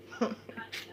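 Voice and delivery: brief, breathy huff of a laugh; quiet, voiceless little scoffing laugh; short laugh. Real, not acted. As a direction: let out one small laugh under the breath. Scoffs at being accused.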